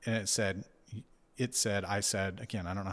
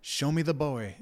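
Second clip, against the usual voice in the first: mock inner scream; 6 semitones higher, 3 dB louder than usual. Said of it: "It was almost like I was screaming".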